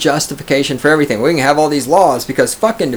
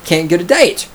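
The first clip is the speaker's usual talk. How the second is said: higher whiny mock voice, last line squeaking high; mocking whiny gender activist; 6 semitones higher, slower than usual. Streamer mocking gender identities, higher whiny mock voice. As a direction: whine out the list of labels. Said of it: "Gender identities".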